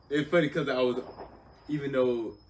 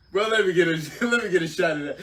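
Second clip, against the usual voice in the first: begging sergeant; 8 semitones higher, 12 dB louder, faster than usual. Retold or imitated. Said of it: "He was like".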